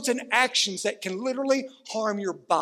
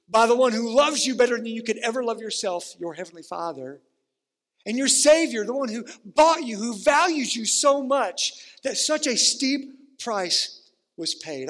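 preaching build; 2 semitones higher than usual. Real, not acted. Pastor preaching to his church, building to a passionate peak. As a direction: build the praise of the Savior to a peak, then drop. Preaching climax about the Savior.

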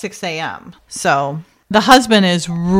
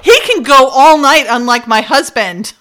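taunting; 4 semitones higher, 5 dB louder than usual. Retold or imitated. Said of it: "rub it into the husband".

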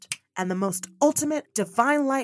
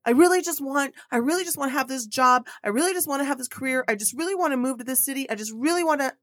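wanting voice; 3 semitones higher, 4 dB louder, faster than usual. Retold or imitated. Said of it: "So instead of like".

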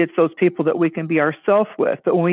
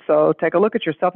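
unmoved, emotionless reply; deadpan psychologist. Retold or imitated. Skit psychologist brushing off the patient's protest, deadpan. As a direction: dismiss it with no emotion. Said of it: "totally no emotion".

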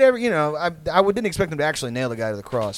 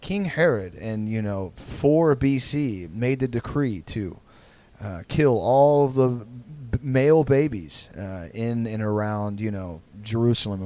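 mock pageant narrator; 4 semitones lower, slower than usual. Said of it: "a narrator that's like".

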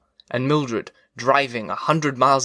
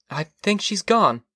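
high, slow wife's voice; Mildred, offhand; 7 semitones higher than usual. Acted. Wife recalls the neighbour girl to her husband, offhand. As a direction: say it vaguely, pitched up.

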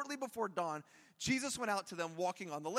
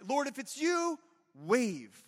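mock timid request; 3 semitones higher, 4 dB louder, slower than usual. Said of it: "he had so many other choices".

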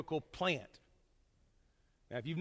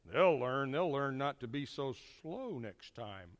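lower, slow, smug customer muttering; a lightly voiced self-righteous customer; smug grumble; 4 semitones lower, 3 dB quieter, slower than usual. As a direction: mutter it like a petty diner sure he taught them. Voicing a smug rude customer.

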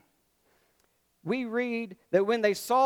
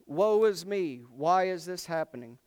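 mock self-pity; 3 dB louder than usual. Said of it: "this mimics me".

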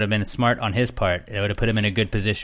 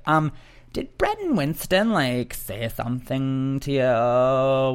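mock timid Caitlyn; much slower than usual. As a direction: ask it small and innocent. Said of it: "she's like".

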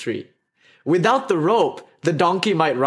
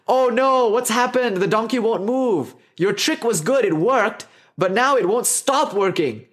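mock panic; 5 semitones higher than usual. Panicked dhobi to the stranger.

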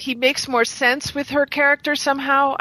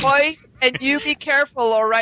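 put-on amateur southern English accent, slightly raised pitch; 3 semitones higher than usual. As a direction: quote it in a lightly mocked southern English accent. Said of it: "last person to support Southerners".

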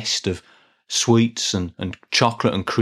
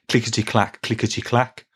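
train rhythm. Shown as a demonstration. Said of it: "a bit like a train".

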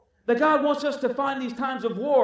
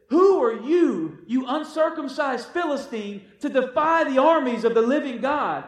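put-on bold young David; 3 dB louder than usual. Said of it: "David says".

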